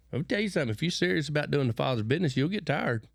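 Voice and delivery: a pastor getting fired up about the father's business; fired-up preaching. Real, not acted. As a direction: build it like a sermon climax. Preaching with rising force.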